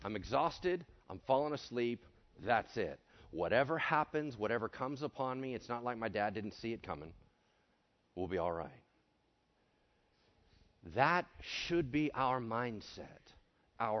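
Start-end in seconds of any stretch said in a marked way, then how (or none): 0.0-8.8 mildly acted easy calm, lower and softer toward the end; untroubled, no worries. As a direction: settle down for sleep without a care, voice sinking. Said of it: "Jesus had no worries".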